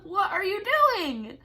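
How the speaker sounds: high and loud through laughter; laughing squeal. Real, not acted. Laughing loudly and high at her cat's antics. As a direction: giggle it at the cat.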